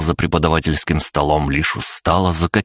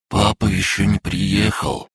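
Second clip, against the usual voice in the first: sad, slow, higher question from a little dragon; 4 semitones higher, slower than usual. A narrator's reading. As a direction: ask it slowly and plaintively in a small, higher voice. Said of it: "с печалью спросил он". (печально, протяжно)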